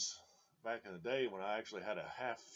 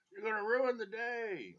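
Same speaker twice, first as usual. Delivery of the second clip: mock scolding captain; 12 semitones higher, 7 dB louder than usual. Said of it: "He's just like".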